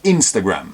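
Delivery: Instagram with a closed final m; English Instagram. Shown as a demonstration. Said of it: "Instagram vira Instagram".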